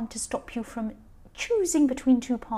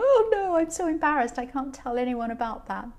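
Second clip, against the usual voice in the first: embarrassed parent. Retold or imitated. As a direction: play the ashamed family member. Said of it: "and they go".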